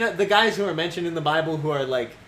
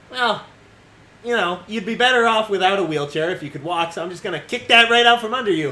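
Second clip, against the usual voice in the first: rising, louder fake-helpful voice; mock cheerful cruelty; 3 semitones higher, 5 dB louder than usual. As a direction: sound brightly helpful while being cruel. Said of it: "the equivalent of being like".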